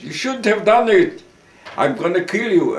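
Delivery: loud angry threat. Retold or imitated. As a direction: yell the threat into his face. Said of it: "commandant threatens with gun".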